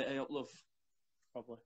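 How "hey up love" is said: "hey up, love" in a soft Yorkshire accent, "up" as "oop"; Yorkshire greeting. Shown as a demonstration. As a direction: say "hey up, love" the Leeds way, quiet. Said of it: "We'd say".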